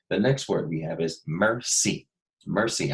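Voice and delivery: teacher models "Mercy" to find the sound; modeling the word. Shown as a demonstration. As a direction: stretch "Mercy" so they hear the S. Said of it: "I hear the special sound".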